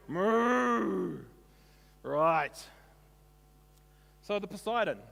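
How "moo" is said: gasp, then a loud call to the dog; excited call. Real, not acted. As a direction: call the pet out happily. Calling the pet dog.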